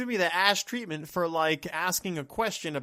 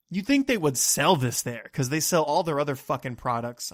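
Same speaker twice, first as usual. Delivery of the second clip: mildly annoyed rant; a little mad; 2 semitones lower, 3 dB louder than usual. Real, not acted. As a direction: complain with a touch of real irritation. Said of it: "I know I'm a little mad right now".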